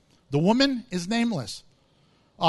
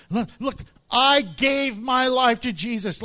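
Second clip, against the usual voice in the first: boastful believer; 3 semitones higher, 3 dB louder than usual. Retold or imitated. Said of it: "people who talk like that".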